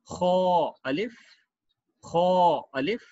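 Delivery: slow reading. Shown as a demonstration. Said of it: "next पढ़ते हैं खो अलिफ".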